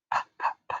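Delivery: "P, p, p" as voiceless puffs of the p sound. Shown as a demonstration. Teacher isolating the first sound for kids: breathy pops. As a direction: pop the p sound three times. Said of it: "Where do you hear the difference".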